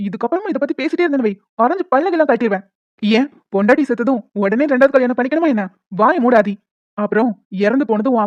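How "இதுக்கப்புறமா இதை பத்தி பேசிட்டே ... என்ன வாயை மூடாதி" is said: exasperated, raised-pitch telling-off; irritated warning. Acted. Widower tells brother-in-law to stop pushing remarriage, irritated. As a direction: lose patience and warn him off.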